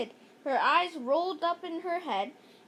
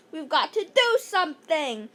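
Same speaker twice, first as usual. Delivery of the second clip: mild shout; 5 dB louder than usual. Acted. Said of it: "shouted Emily".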